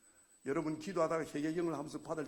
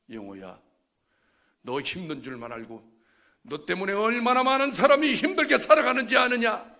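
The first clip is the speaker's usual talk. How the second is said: rebuking God; 6 semitones higher, 14 dB louder than usual. Retold or imitated. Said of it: "그러시는 거예요". (낮게 시작해 크게 꾸짖는 하나님)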